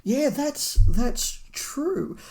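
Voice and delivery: high, amused concession through a laugh; amused, slowed agreement. Real, not acted. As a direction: giggle it out, conceding. Laughing concession about kids' novel.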